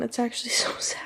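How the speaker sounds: whispered, half laughing; whispering to viewers after a sad passage. Real, not acted. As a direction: sigh it out with a small laugh.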